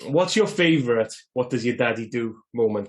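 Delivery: usual speaking voice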